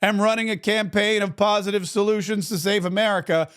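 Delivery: statement read aloud. Acted. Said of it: "wrote about it on his Truth Social".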